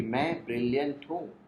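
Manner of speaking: understated heroic proclamation; pretend full confidence. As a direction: declare it like Superman, without raising the volume. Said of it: "पूरे आत्मविश्वास के साथ खड़े होकर".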